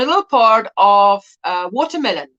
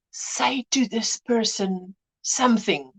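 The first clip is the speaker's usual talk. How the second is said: soft, slow murmured prompt; feed the words quietly, spaced out; whispered prompt; 6 dB quieter, slower than usual. Retold or imitated. Mother prompting her son what to say, whispered prompt.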